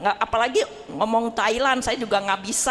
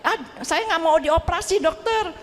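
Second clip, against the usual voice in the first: higher-pitched mock dismay; retold alarm; 4 semitones higher than usual. Patient refusing surgery to the doctor, retold alarm. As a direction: plead with mild dread, as if retelling it. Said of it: "saya kan takut ya".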